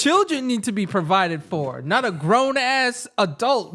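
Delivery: amused scoff, laughing as she talks; a laugh in the voice as she mocks it; laughing through the rant. Real, not acted. Friend laughing while mocking grown adults.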